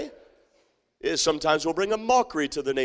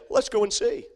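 eager invitation; 4 semitones higher than usual. Pretend. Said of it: "here's what they say".

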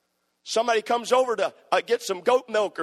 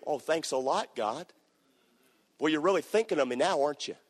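sarcastic; 5 semitones lower, 4 dB quieter than usual. Retold or imitated. Sarcastic reply to God.

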